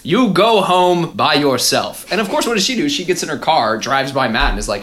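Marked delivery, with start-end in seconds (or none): 0.0-2.0 slow, louder mock dad order; commanding father. Dad sends Meredith home alone, lightly acted commanding father. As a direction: lay down the law slowly, lightly acted. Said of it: "He's like, "Meredith".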